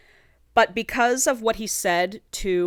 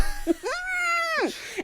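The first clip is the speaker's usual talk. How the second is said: long, high-pitched delighted squeal; 4 dB quieter than usual. Real, not acted. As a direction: squeal at the juicy plot moment. Reacting to the caught-snooping scene.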